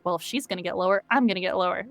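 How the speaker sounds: drops the voice low to match. Retold or imitated. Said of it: "And so I was like".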